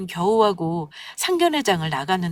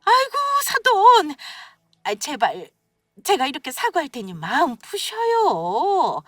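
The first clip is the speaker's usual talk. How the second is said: high-pitched, grovelling apology; servile pleading; 5 semitones higher than usual. A narrator's reading. Mother-in-law begging the bride's mother to save the wedding, servile pleading. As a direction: plead obsequiously, drawing out the first cries. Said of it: "정말 비굴한 태도로 돌변해서는".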